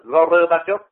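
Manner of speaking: Gorbachev said syllable by syllable, Go-rơ-ba-chốp; Vietnamized Gorbachev; Vietnamese Gorbachev. Shown as a demonstration. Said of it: "trên báo của Việt Cộng nó in".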